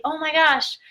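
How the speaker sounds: high, bubbly gush over the bangs; gushing compliment. Retold or imitated. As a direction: squeal it like an excited friend. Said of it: "And when they say".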